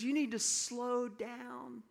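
slow the words down to show him how; deliberately slowed mentor advice; slow, firm insistence. Retold or imitated. Mentor repeats the warning firmly.

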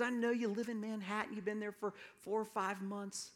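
a hint of an older gentleman lecturing. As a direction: play the wise old man setting him straight. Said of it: "it was an older gentleman".

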